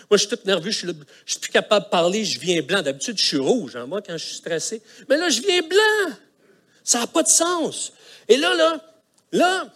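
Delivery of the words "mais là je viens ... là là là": retold panic. Retelling panic, turning white.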